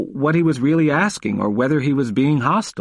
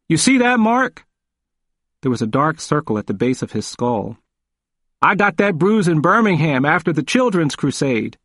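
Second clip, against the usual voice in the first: put-on old man growing stronger, voice raised high; 3 semitones higher than usual. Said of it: "His voice grew stronger".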